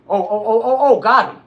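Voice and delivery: high, very loud triumphant yell; excited yelling. Real, not acted. Streamer celebrating a kill in the game, excited yelling. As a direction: explode with joy at the kill.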